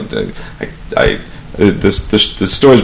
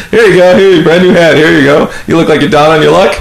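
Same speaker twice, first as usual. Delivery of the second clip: mock-kind Rich; 6 semitones higher than usual. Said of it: "that's how Rich presented it".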